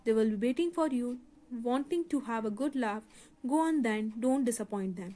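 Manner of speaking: a touch of spiteful teasing; taunting. Acted. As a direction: needle him with fake sweetness. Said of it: "taunting him".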